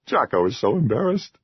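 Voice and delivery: a small creature hanging its head; embarrassed troll. A narrator's reading. Troll shyly answering.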